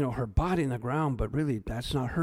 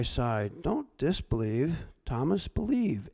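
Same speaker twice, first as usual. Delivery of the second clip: voicing Jesus; 3 semitones higher than usual. Jesus speaking to Thomas.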